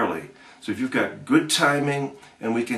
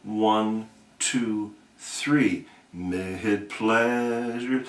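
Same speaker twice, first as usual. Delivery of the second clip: slow count-in; 2 semitones lower, 4 dB quieter, much slower than usual. Shown as a demonstration. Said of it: "So I would count one".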